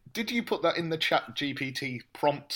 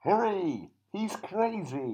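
high, strained cry to hurry; urgent plea; 6 semitones higher, slower than usual. Acted. Tied-up Matt urges the lads to hurry, high and urgent. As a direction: plead urgently with rescuers.

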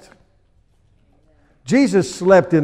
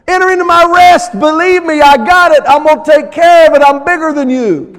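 voicing God reassuring; 10 semitones higher, 6 dB louder than usual. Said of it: "And he's going".

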